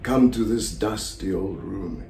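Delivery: slow theatrical invitation; lightly voiced Salieri, beckoning slowly; lonely Salieri, inviting. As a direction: coax the unseen audience in, unhurried. Rehearses monologue in character.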